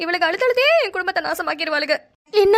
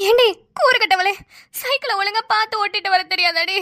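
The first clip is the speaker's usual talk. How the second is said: angry scolding; 3 semitones higher than usual. Acted. Injured old woman scolds the careless cyclist angrily. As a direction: tear into her for careless riding.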